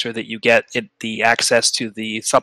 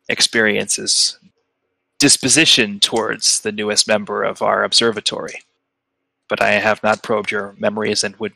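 solemn rock being. Acted. Game master plays Quartz.

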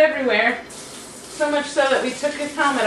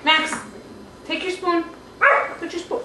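high sing-song coaxing; 5 semitones higher, 3 dB quieter than usual. Real, not acted. Coaxing pet to take spoon.

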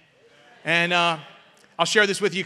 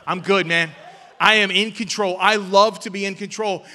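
a louder, swaggering boast of being in control; mock proud boast; 7 dB louder than usual. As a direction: play the proud control freak, pushing it out. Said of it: "proudly boasting about control".

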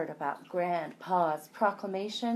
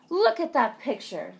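excited; 7 semitones higher, 5 dB louder than usual. Acted. Mole rats demand attention.

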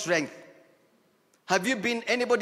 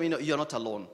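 softer, lower voice of comfort; tender divine reassurance; 6 semitones lower, 4 dB quieter than usual. Pretend. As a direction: whisper God's comfort close. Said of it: "a word that will come and say".

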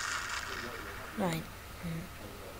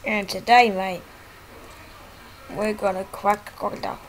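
Aussie croc-hunter voice. Retold or imitated. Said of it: "this is what he really sounds like".

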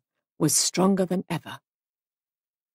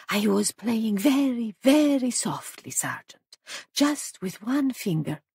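sly foreign suspect; 4 semitones higher than usual. A narrator's reading. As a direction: linger teasingly over each phrase. Paravicini voiced by narrator.

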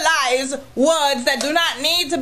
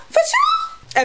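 mock shock. Squealed disbelief.

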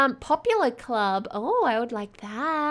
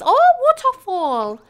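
1 excited gasp; 8 semitones higher, 7 dB louder than usual. Real, not acted. Gamer spots waterfall, delighted.

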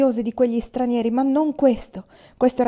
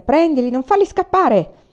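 loud soldier's cry, pitched up; shouting from the yard; 7 semitones higher, 6 dB louder than usual. A narrator's reading. Soldier yelling to catch fleeing family, loud shout. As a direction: yell the order across the courtyard. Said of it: "Dal cortile giunsero grida".

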